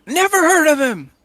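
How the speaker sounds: high, loud dismissive shout; shouted brush-off across the road; screaming back. Acted. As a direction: yell them away from a distance. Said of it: "Morgan kinda screams back".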